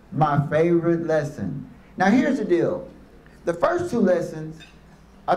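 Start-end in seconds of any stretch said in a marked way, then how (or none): 0.1-1.7 second take dropped lower, savoring favorite; a low, relishing My favorite lesson; lower repeat. Shown as a demonstration.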